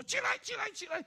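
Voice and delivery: loud, high repeated command; commanding the dead. Retold or imitated. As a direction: order the dead to rise. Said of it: "开始对死人说".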